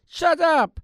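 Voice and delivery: high furious shout; angry yell. Acted. Orphanage owner yelling at the hungry children. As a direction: snap at them to shut up.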